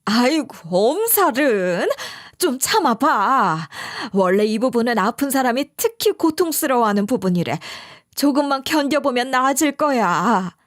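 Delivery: scolding. Retold or imitated. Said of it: "윽박질러댔어요".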